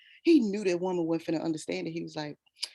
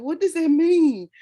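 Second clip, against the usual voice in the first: puzzled teacher; 8 semitones higher, 6 dB louder than usual. Retold or imitated.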